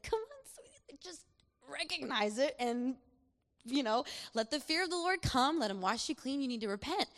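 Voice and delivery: gentle inner voice. Retold or imitated. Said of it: "the Spirit of God in me".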